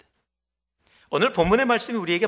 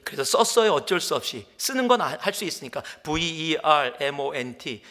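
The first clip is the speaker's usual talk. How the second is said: usual speaking voice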